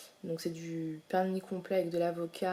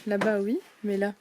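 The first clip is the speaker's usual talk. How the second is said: usual speaking voice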